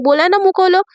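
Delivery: angry order. Acted. Riya angrily ordering Myra to open her mouth, mildly scolding. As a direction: snap it out like a cross carer. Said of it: "एकदम गुस्से में बोलती है".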